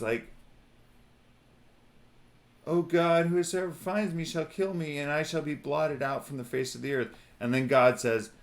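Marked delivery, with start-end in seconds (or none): 2.7-7.1 pleading. Acted. Cain pleading to God.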